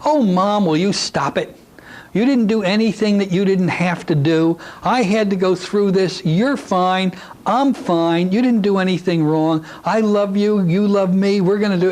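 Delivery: put-on a small child gently setting mom straight; a hint of a little child comforting her mother; child consoling mother. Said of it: "a little Irish pixie".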